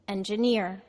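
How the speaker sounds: Engineer with NEER stressed, middle syllable reduced; stress on third syllable. Shown as a demonstration. Teacher gives students a word to repeat, stress on final syllable. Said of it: "the third syllable is stressed".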